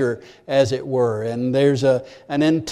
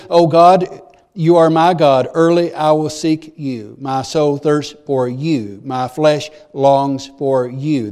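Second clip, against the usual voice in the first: fervent prayer; slower than usual. Retold or imitated. Preacher voicing David's prayer, fervent then slow. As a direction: pray it like a thirsty man. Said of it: "he says".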